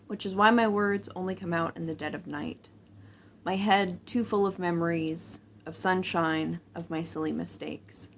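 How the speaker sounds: measured poem reading, pausing between phrases; poem recitation. Acted. Vlogger starting the vlog with a poem about poetry, recited. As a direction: recite your own poem, letting lines fall at the ends. Reads out their own poem.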